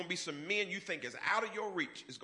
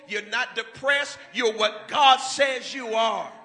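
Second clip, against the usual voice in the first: loud, rising sermon cadence; louder and louder preacher cry; full-force preaching; 5 semitones higher, 9 dB louder than usual. Acted. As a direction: preach it hard to the congregation.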